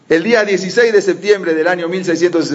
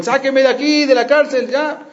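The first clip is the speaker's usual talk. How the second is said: retold cry for help; 9 semitones higher than usual. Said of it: "empezó a gritar".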